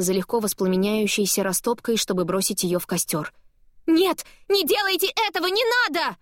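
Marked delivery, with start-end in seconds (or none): 3.9-6.2 desperate high cry. A narrator's reading. Paper about to burn.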